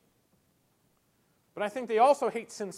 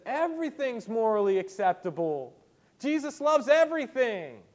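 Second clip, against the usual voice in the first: lightly voiced grandly approving pastor, louder; mock permissive pastor; 5 semitones higher, 6 dB louder than usual. Preacher mocking a pastor who wants to fit in, loud mock proclamation. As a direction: proclaim it with mock enthusiasm, rising higher.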